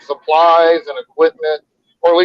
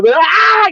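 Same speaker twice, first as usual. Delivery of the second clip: mock scream; 4 dB louder than usual. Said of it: "The guy, like, just yelling".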